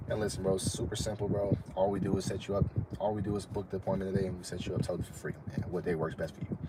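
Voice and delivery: smooth calm salesman to a client; cool and calm. Shown as a demonstration. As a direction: lay back and close like a pro. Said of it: "Which one sounds more cool and calm?".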